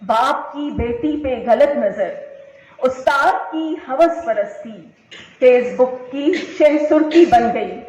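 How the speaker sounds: declaimed verse in short, separated phrases; emphatic mushaira-style reading with repeated lines; poem recitation. Acted. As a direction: recite a social-commentary poem to an audience. Recites second poem to audience.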